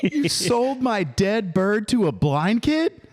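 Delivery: slow laughing movie quote. Retold or imitated. Quoting the movie to his friend, laughing. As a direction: chuckle through the movie line.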